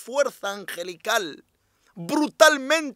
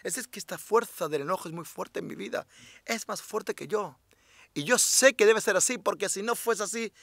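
humble prayer; 6 dB quieter than usual. Shown as a demonstration. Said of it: "Y dile".

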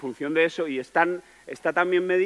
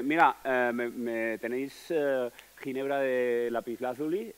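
slow, self-satisfied bar order; cocky order; 4 dB quieter, slower than usual. Retold or imitated. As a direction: order like a smug show-off. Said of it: "es un tipo muy chulo".

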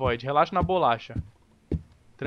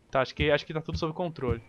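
ordinary talk

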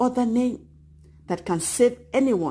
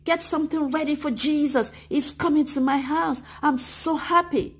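happy; 8 semitones higher than usual. Acted. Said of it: "tell your mommy and your daddy".

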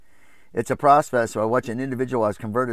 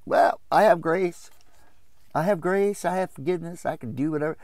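lightly mimicked excuse, higher voice; mock a carefree churchgoer, pitched up; careless believer; 5 semitones higher than usual. Preacher imitates a Christian excusing sin, higher-pitched mock voice.

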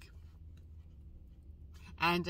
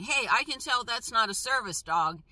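imitating an abrupt challenge, pitched up; mildly hammed-up accusation, a little raised; 4 semitones higher, 4 dB louder than usual. Woman on duty challenging a dog owner, abrupt. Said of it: "she was very abrupt at me".

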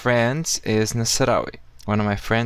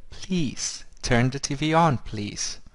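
polite request; 3 semitones higher, 4 dB quieter, slower than usual. Shown as a demonstration. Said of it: "if you want to be polite".

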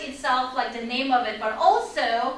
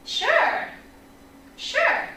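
agreeable reply; 8 semitones higher than usual. Acted. Models the teacher's agreeing reply.

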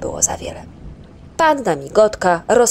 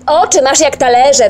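loud, higher screech; yell; 8 semitones higher, 9 dB louder than usual. Acted. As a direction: yell at the stranger. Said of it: "wrzasnął Ryjek".

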